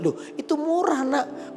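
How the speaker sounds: lightly voiced surprise, pitched high; mild high-pitched protest from a puzzled parent; surprised father. Father hears child wants a cheap gift, mildly surprised.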